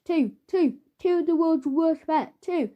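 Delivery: a man cracking up, hammering the word; manic ranting. Acted. Father losing his mind.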